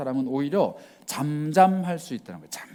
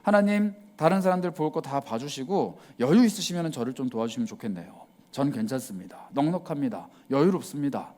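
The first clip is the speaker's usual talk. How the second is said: leisurely casual prayer. Retold or imitated. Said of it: "이거 고난 아닙니다".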